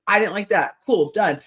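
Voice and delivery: brisk matter-of-fact close; breezy and final. Retold or imitated. Partner answering a complaint simply, breezy and final. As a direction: state it and move on. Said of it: "if you have an issue with me".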